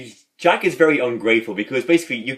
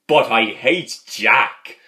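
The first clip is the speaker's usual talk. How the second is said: loud, slow mock declaration; lightly acted uncle, drawing the words out; imitating uncle; 5 dB louder, much slower than usual. Nephew quotes uncle on Father Jack, slow and emphatic. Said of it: "And he goes".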